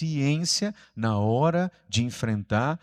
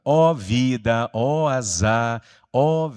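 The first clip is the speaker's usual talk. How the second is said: slow, drawn-out mock lament, louder; complaining cartoon hyena; 5 dB louder, much slower than usual. Preacher quoting an old cartoon hyena, complaining lament. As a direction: imitate a gloomy cartoon hyena wailing about its luck. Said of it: "lembra que só reclamava".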